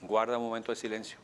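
ordinary talk

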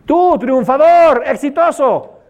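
high, loud, slow call of praise; street shout. Retold or imitated. Someone in the street shouts praise at passersby, loud and high. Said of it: "a quién le gritaron".

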